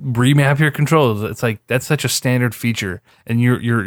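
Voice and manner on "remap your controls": slightly raised, overexcited pitchman; sarcastic product hype; mock revolutionary sales pitch. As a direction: sell it like a huge breakthrough. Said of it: "sell it to you like it's this, like, revolutionary".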